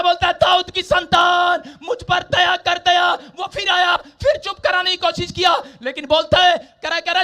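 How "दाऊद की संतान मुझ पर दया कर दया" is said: slow, loud plea for mercy; crying out louder. Retold or imitated. Blind beggar ignoring the scolding, louder slow plea. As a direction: call out louder over those hushing him. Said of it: "और जोर जोर से चिल्लाने लगा".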